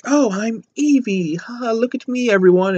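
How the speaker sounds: high, drawn-out, hammed-up show-off; mocking imitation of an actress showing off; put-on high voice, begging for attention; mock actress impression. Mimicking the replacement actress.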